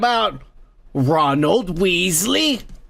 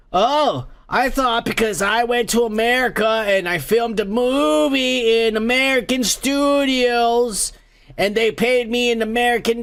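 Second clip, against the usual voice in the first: mock British celebrity; 3 semitones higher than usual. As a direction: imitate a clueless film star making excuses. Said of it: "they're all like".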